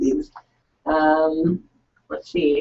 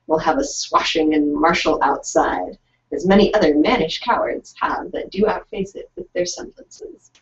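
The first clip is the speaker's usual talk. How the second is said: dramatic reading. Acted. Reads Shakespeare speech aloud.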